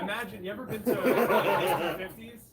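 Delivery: high, giggly, broken-up question; laughing while talking. Real, not acted. Explaining an old singing group to co-host, laughing. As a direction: crack up mid-explanation. Cracks up at own failed explanation.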